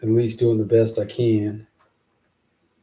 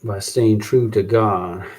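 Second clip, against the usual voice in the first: slow reading; slower than usual. Shown as a demonstration. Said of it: "Verse three".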